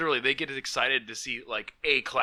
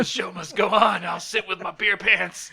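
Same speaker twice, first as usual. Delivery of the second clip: raised, loud voice of resolve; defiant declaration; 5 semitones higher, 5 dB louder, slower than usual. Real, not acted. Soaked host refuses a break, defiant declaration. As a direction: declare it as a rallying cry. Carrying on defiantly in beer pants.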